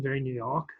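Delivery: mock New York accent with the r dropped in "York"; a lightly done, self-mocking New York accent; bad New York accent. Shown as a demonstration. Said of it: "that was my worst New York accent".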